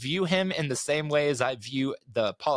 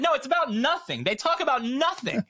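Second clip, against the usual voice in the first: imitating friend; 9 semitones higher than usual. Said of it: "and Jessica went".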